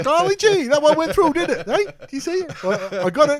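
very high, loud goofy gee-whiz voice; wholesome 1950s kid. Pretend. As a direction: squeal it like a dopey cartoon goof. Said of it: "a cross between Ned Flanders and Goofy".

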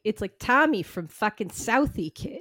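exaggerated Boston townie; hammed-up Southie accent. Joking about the hat name, hammed Boston accent. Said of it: "I'm hamming it up".

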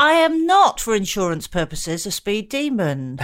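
mock indignant.

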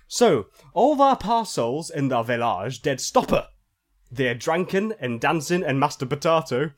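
solemn fake-archaic scripture reading; mock scripture reading. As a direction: read it like garbled holy scripture. Reads fake phonetic bible.

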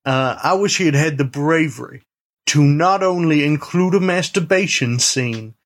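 a lightly put-on old-West saloonkeeper; saloon owner cowboy. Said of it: "the voice Youth is doing".

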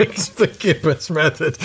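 slow, deliberate mock-solemn title; mock grand announcement. Co-host teasing about the Gibbons auto box method, slow mock-solemn. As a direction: present it like a grand secret technique.

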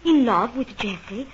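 lady flustered when accused of loving Geoffrey; startled denial. Acted. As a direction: caught off guard, deny it loudly.

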